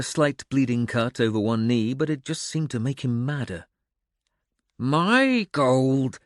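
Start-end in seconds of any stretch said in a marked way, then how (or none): 4.8-6.2 wheeze. A narrator's reading. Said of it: "he wheezed".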